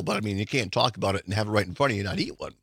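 talking through a mouthful; words round a bite of food; mouth full. Real, not acted. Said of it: "Sorry to talk my mouth full".

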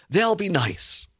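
mildly imitating naive hope; naively hopeful. Voicing the regents' naive hope.

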